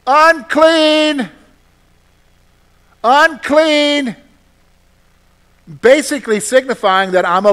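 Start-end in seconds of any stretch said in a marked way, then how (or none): 0.0-4.2 loud, high call of warning; yelling out. Retold or imitated. Leper warning approaching people, loud high cry. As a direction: cry it out to warn passersby off. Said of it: "I would have to yell out".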